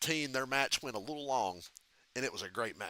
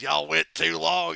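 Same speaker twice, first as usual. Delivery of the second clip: slow and louder drawl; Michael Hayes impression; 3 semitones higher, 5 dB louder, slower than usual. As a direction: lean into it, drawn out and louder. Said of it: "fucking Michael Hayes".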